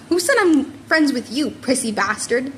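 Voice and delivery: a light sneer, slowing on the insult. Acted. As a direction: curl the lip at him. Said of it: "Bakugo sneered".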